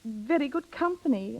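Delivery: a wistful, weary plea, pitched a little up; coached sad plea. Acted. Secretary coaching a friend to win Rims, acting the plea. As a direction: sigh it out as if tired of everything. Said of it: "you'll say these words".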